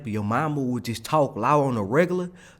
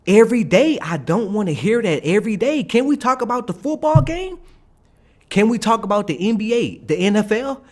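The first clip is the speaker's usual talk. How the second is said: higher-pitched fed-up complaint; exasperated plea; 6 semitones higher than usual. Retold or imitated. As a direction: beg a coworker to change the subject, pitched up. Acted plea to change subject.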